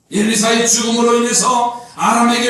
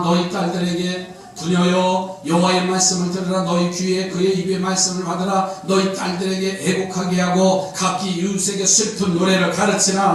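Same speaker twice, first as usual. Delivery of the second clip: monotone scripture recitation on one steady note. Acted. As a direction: read the verse evenly, barely moving the pitch. (높낮이 없이 고른 성경 낭독)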